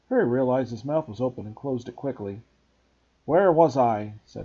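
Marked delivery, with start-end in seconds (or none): 3.3-4.1 loud gruff giant voice; Hagrid voice. Acted. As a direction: bluff gamekeeper asking. Hagrid speaking.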